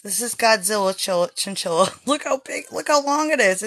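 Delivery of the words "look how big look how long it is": higher, laughing delight. Real, not acted. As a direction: laugh it out while showing off. Laughing while showing the chinchilla.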